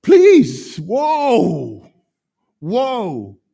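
high, loud startled stop; retold rebuke. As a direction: pull her up short. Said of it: "I just said to her".

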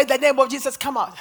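loud exorcist's command; commanding shout. Retold or imitated. Preacher re-enacting her command to the demon, commanding shout. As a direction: drive the demon out at high volume.

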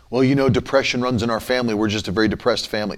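low, soft, quick imitation of a resigned person; mock resignation. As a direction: mimic someone meekly accepting the family's depression. Acting out someone accepting family depression.

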